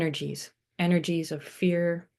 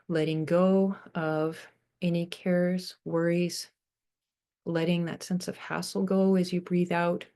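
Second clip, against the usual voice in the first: unhurried meditation voice with long pauses; guided meditation. Real, not acted. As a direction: guide them gently into breathing, leaving space between phrases.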